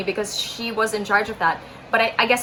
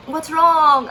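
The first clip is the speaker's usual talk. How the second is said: higher, louder bad Italian accent; attempted Italian accent; 7 semitones higher, 5 dB louder than usual. Italian passerby asking what was wrong, Italian accent. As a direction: try an Italian accent with concern. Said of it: "I can't do an Italian accent".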